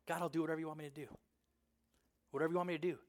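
soft, low, submissive plea to God; hushed yielding to God; surrendered prayer. Acted. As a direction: quietly give yourself over in prayer.

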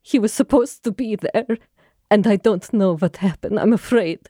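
put-on mildly tearful plea in a foreign accent; understated acted distress, accented; put-on crying. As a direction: play upset, halting between phrases. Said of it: "So she starts crying".

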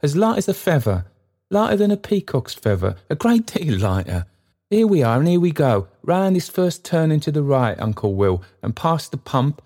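put-on quick bouncing old porter, pitched high and loud; trotting speech. Trotty guiding Uncle Will home, trotting along in his talk. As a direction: hurry the stranger along, jaunty. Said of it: "trotting in his speech as well as in his gait".

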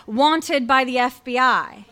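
slow, weighted reading aloud; dramatic headline reading. Retold or imitated. Storyteller revealing what the top of the page says, slow and dramatic. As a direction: spell out the headline slowly for effect. Reads out shocking newspaper headline.

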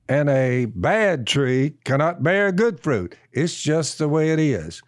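slow, emphatic sermon cadence; a preacher driving the verse home to his friends, emphatic and slow; preaching the verse. Acted. Recites and expounds the verse.

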